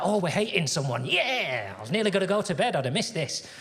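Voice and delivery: lightly acted eager glee; a gleeful lift, peaking on the cheer; mock excitement. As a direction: play the keen latecomer joining in. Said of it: "he gets all excited".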